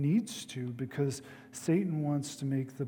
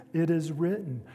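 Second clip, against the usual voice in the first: It is written rung out louder; proclaimed; 3 semitones higher, 6 dB louder than usual. Acted. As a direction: declare it like a verdict. Preacher proclaims Jesus' answer.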